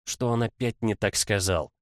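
usual speaking voice

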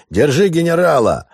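high, loud shout. Acted. Yakov yelling at the sailors to stop the general, high and loud. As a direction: yell it after the escaping man.

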